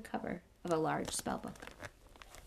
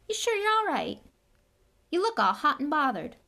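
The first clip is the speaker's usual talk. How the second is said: Hagrid voice; 8 semitones higher, 7 dB louder than usual. Acted.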